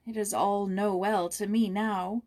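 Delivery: slow, heavy and tearful; a girl in tears alone in her room; mild sobbing lament. A narrator's reading. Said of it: "she sobbed".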